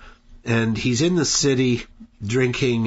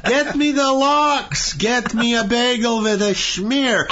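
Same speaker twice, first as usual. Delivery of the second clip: put-on cliched Jewish accent; 12 semitones higher, 3 dB louder than usual. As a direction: overdo a stereotyped Jewish grandpa. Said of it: "in the most cliched Jewish voice ever".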